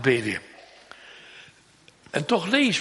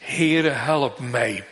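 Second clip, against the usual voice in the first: slowed, low earnest pleading; slow plea; 3 semitones lower, much slower than usual. Acted. Mother begging the Lord, slow and earnest. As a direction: stretch each word as a humble prayer. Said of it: "een vrouw in grote nood".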